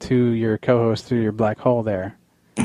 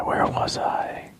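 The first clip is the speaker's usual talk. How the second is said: slow, unvoiced and softer; slow eerie whisper; 7 dB quieter, much slower than usual. Host echoes himself as a spooky whisper. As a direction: breathe it out slowly like a ghost.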